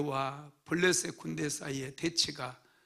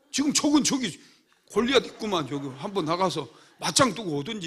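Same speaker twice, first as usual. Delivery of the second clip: much higher and louder, mocking and angry; rebuking the brother; 5 semitones higher, 10 dB louder than usual. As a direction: give the cowardly brother a piece of your mind. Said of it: "오히려 형을 책망을 할 것 같은데". (겁쟁이 형을 꾸짖는 흥분한 말투)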